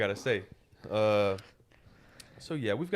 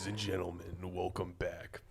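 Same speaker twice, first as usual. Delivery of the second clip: low energy; 5 semitones lower, 10 dB quieter than usual. Shown as a demonstration. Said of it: "Bring energy".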